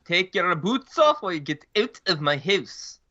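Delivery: mock Canadian accent. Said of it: "what accent was that?".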